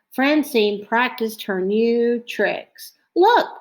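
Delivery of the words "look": bright high call for attention; excited call. A narrator's reading. Francine showing off to friends, excited call. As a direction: shout it out to grab attention. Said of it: "she said".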